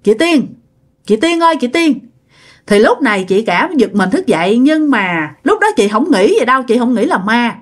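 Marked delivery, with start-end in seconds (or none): 0.0-2.0 haunting voice calling Chị Tiên from the dark; ghostly calling. Retold or imitated. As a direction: call her name like a ghost from outside the house. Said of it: "kêu rằng á là".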